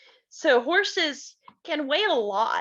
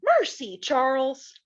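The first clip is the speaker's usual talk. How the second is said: startled Ma; slower than usual. Acted. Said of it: "Ma jumped in her chair and said".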